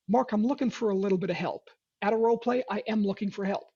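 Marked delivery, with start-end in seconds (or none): 0.1-1.7 disarmingly honest. Shown as a demonstration. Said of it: "I'm disarmingly honest".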